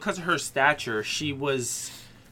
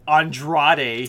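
louder, rolled Spanish "Andrade"; over-the-top Spanish accent; 7 dB louder than usual. Retold or imitated. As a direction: ham up a Spanish ring-announcer accent. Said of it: "I love that you do it in a Spanish accent".

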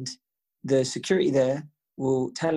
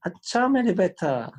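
put-on higher, drawn-out reply to a small child; indulgent dad; 4 semitones higher, 3 dB louder, slower than usual. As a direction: humour your little one, slowly. Father answering his little son.

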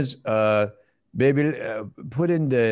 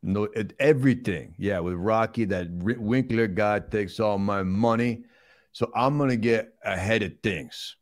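slow, worked-up movie tough guy; griping star impression; Sylvester Stallone; slower than usual. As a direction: play an aggrieved action star.

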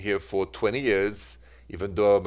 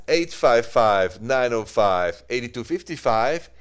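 slow number read; 3 dB louder, slower than usual. Real, not acted. Host reads call-in number.

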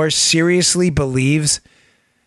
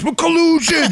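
high-pitched imitation of a ranting accuser; mock heckler; 9 semitones higher, slower than usual. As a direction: fire it off as a hammed-up outburst. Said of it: "he keeps firing these".

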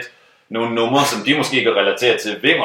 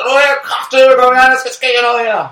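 high bossy shout, fast; rough tone; 13 semitones higher, 5 dB louder, faster than usual. Retold or imitated. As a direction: round up the drunk guests. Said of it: "den tone der".

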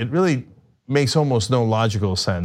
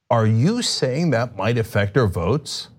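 feigned outrage news anchor; slower than usual. Pretend. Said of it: "in my best, uh, feigned outrage, mainstream media anchor voice".

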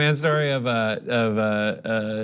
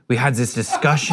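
Hans Zimmer. Retold or imitated. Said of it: "but he's like".

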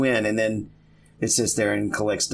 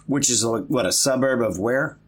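teacher voice; 3 semitones higher than usual. Acted. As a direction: ask like a kindergarten teacher. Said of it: "with my teacher voice now".

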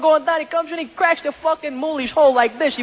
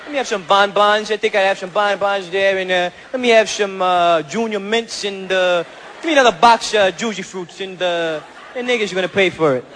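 swaggering tough-guy order; cocky demand; 3 semitones lower than usual. Retold or imitated. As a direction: boss the cashier around. Italian guy bullies candy customer.

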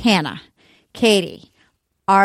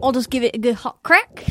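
Australian accent attempt. Shown as a demonstration. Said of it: "Let's hear yours, Katie".

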